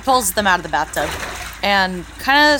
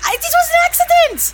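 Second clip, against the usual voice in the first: high, panicked whisper yell; 4 dB louder than usual. Acted. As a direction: yell it while trying to stay hushed. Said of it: "whisper yelling".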